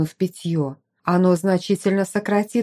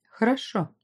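restrained; 3 semitones higher, 4 dB quieter than usual. Acted. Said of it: "ответила сдержанно".

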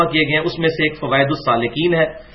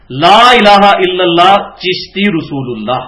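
slow recitation; 3 dB louder, slower than usual. Retold or imitated. Quoting the altered kalima.

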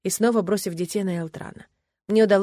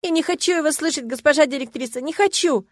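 much higher tearful plea; sobbing plea; 8 semitones higher, 4 dB louder than usual. A narrator's reading. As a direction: beg through sobs. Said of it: "всхлипывала она мне в платье". (всхлипывая)

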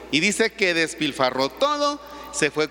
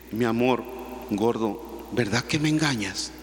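suspicious wife; 8 semitones lower, 5 dB quieter than usual. Retold or imitated. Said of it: "Le dice".

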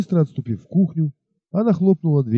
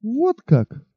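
exclaiming; 9 semitones higher than usual. Acted. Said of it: "воскликнула Бетси".

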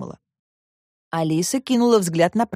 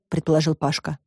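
ordinary delivery

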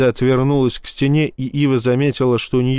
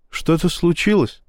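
gently; 6 semitones higher than usual. A narrator's reading. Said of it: "спросила она мягко".

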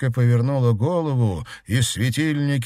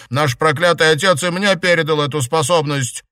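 raised, louder resentful boast; bitter scoff; 6 semitones higher, 5 dB louder than usual. A narrator's reading. Sister revealing her inherited power, bitter scoff. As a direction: let bitterness push the voice up. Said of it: "горько усмехнулась".

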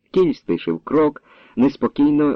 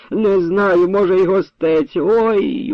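high, moaning answer; in pain; 8 semitones higher, slower than usual. Acted. Stricken wife answering husband, in pain.

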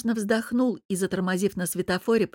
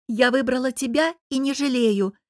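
heated, higher and louder; flaring up; 5 semitones higher, 4 dB louder than usual. A narrator's reading. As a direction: snap back heatedly. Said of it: "взвилась я".

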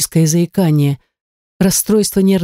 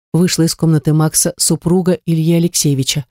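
ordinary delivery

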